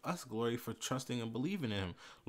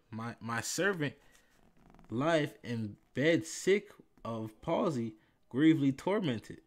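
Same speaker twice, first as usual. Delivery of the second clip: scripture reading. Acted. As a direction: read the Gospel with gathering weight. Preacher reads Matthew eight aloud.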